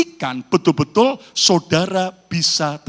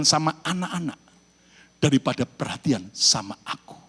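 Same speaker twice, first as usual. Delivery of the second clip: soft confessing husband; 3 semitones lower, 4 dB quieter than usual. Acted. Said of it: "istrinya tanya".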